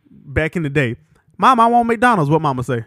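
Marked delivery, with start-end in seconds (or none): 1.4-2.3 put-on high pleading child; whiny kid voice. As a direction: kid begging mom. Kid asking mom.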